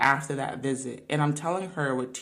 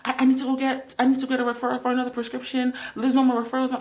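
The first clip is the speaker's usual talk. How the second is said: higher, hurried imitation of relatives panicking; mock panic; 6 semitones higher, faster than usual. Imitating family members out of meds, mock panic. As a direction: rush it like a relative out of pills. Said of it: "I would witness them panic".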